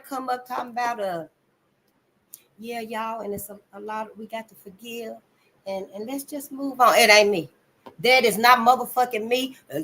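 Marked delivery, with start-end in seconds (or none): 2.6-6.9 tag. Retold or imitated. Mimics people urging forgiveness.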